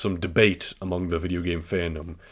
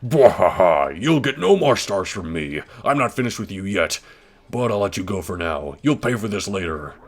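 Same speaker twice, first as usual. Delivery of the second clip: Bowser voice; 4 dB louder than usual. Acted. Reading Bowser's defeat speech.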